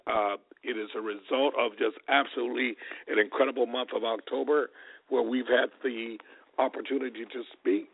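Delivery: hoarse, worn-out voice; pushing words out through a lost voice. Real, not acted. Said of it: "Please forgive my voice".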